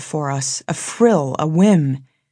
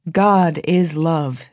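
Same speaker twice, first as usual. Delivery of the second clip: slow and solemn; much slower than usual. Retold or imitated. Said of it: "they once said".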